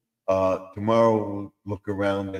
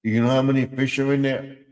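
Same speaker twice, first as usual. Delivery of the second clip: asking the frog; 5 semitones higher than usual. Acted. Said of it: "I would ask the frog".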